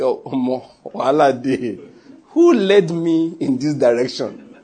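slow, drawn-out playful wail of regret; mock lament. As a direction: bemoan the mess, imitating her dismay. Woman laments her costly pledge.

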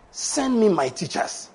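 slow, soft plea to God; earnest prayer. Acted. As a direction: pray it softly, unhurried. Acting out a prayer.

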